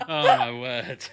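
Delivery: high, unvoiced gasp of amazement; amazed gasp. Real, not acted. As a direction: breathe it out in awe. Breathy amazed reaction.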